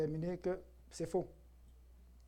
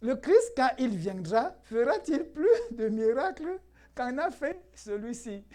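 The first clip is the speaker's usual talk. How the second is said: raised, drawn-out sceptical quote; louder, laughing incredulity at the end; mock questioning; 4 semitones higher, 4 dB louder, slower than usual. Preacher quoting the doubting crowd to his church, mock questioning.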